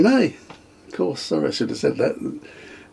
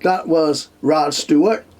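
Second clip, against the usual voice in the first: higher, slow mock Barbadian DJ accent; 6 semitones higher, slower than usual. Quoting the Barbados radio DJ introducing the song, mock Barbadian accent. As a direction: ham up a Barbadian radio DJ announcing a hit, slowly. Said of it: "Can't do the accent".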